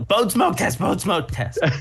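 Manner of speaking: called out in a projected voice. Describing clawing around on the counter while calling out: retelling a yell. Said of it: "I yell".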